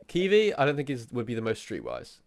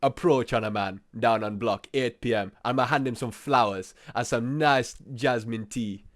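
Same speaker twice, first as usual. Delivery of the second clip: lazy mock Jamaican patois; Jamaican accent. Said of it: "a nice standard Jamaican man would do".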